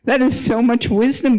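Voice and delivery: put-on stunned and moved by a child's wisdom; mother amazed at her son's reply.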